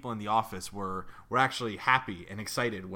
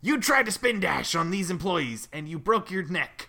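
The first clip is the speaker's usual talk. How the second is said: villain voice; 9 semitones higher, 8 dB louder than usual. Acted. Voicing Eggman.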